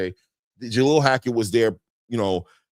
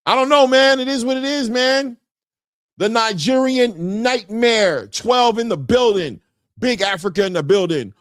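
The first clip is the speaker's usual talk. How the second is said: hyped shout-out; 11 semitones higher, 5 dB louder than usual. Real, not acted. Host hyping a viewer's name.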